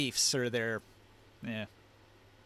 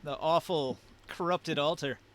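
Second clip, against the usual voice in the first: shuddering fear; 3 semitones higher than usual. Acted. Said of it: "Tuatha shudders".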